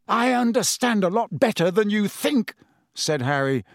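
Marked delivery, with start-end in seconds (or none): 0.1-2.5 voice shaking. A narrator's reading. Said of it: "his voice shook more than ever".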